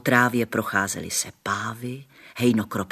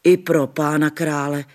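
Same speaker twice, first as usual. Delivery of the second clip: higher, louder dismayed exclamation; shocked grandmother; 6 semitones higher, 5 dB louder than usual. A narrator's reading. Grandmother crossing herself at the dirty girl, dismayed. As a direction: gasp it like a startled granny. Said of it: "křižovala se babička".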